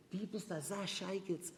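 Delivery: put-on slow Hasidic Yiddish accent; the Hasidic father's Yiddish, slowed and drawn; father scolding the rabbi in Hasidic Yiddish accent. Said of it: "He came from a very Hasidish, uh, community".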